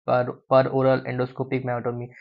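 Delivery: per oral endoscopic myotomy, spelled out slowly word by word; dictating slowly. Shown as a demonstration. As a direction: say it slowly so they can write it down. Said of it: "ठीक है, पढ़ लो".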